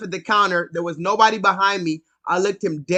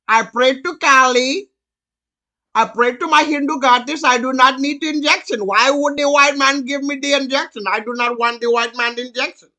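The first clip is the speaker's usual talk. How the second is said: put-on Indian accent; 4 dB louder than usual. Sri Lankan man refusing the injection, in an insistent Indian accent. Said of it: "he was like".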